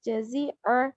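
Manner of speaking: जज़ीअ with the ain made in the throat; clear ain sound. Shown as a demonstration. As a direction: end जज़ीअ on an Arabic ain. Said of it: "आइन की आवाज़". (जज़ीअ में आइन की आवाज़)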